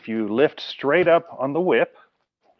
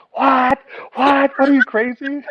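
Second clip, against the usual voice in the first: higher, louder cries of what, hammed-up; mock outraged disbelief; 7 dB louder, slower than usual. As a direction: act out a customer who can't believe it. Customer outraged at the refusal.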